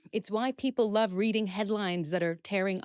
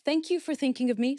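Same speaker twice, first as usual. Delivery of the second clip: gracious reply; 5 semitones higher than usual. Shown as a demonstration. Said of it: "You start with".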